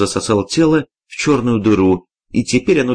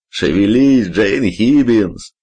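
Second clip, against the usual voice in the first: laughing shout; much slower than usual. A narrator's reading. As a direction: roar it with a laugh. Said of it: "захохотал дядя".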